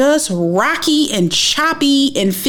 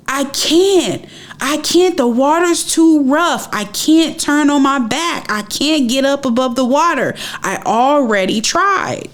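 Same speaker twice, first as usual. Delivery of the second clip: higher-pitched, insistent mock yell; retold yell; 5 semitones higher than usual. Swimmer yelling back to man on jet ski, mock yell. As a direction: retell a desperate protest without full volume. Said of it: "And I yelled to him".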